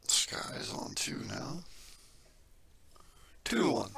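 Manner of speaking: hushed, slow whisper during the shot. Real, not acted. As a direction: whisper so as not to disturb the player. Hushed commentary while the player shoots.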